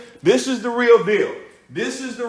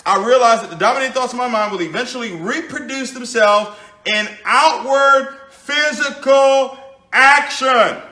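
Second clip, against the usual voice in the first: emphatic reading; 4 dB louder than usual. Acted. Emphatic reading of book quote.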